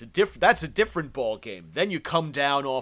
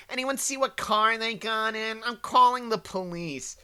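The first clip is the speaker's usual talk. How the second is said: higher, mocking indignant bystander voice; whiny protester; 10 semitones higher, 3 dB louder than usual. Mocking the protesters who call the police, higher whiny voice. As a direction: sneer it like a self-righteous tattletale. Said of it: "they're just so fucking".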